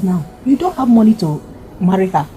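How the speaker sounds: high, loud, agitated urging; exasperated mother laying down the verdict; insistent parental refusal. Acted. Mother urging son to drop fiancée.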